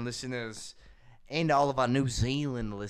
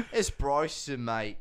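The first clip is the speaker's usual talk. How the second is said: mock Australian accent; slower than usual. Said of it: "I wanna switch over to Australian".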